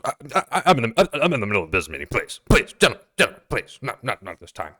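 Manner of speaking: stammering, pleading businessman; nervous stutter, please please; flustered Stark. Acted. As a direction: beg the guards to leave you be. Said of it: "and Stark goes".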